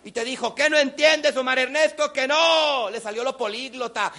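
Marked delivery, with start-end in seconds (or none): 0.5-2.9 high, loud exasperated scolding; mother gone crazy. Retold or imitated. Mom refuses ice cream a third time, raging scold. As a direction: let the inner gremlin out. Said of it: "tu mamá se volvió loca".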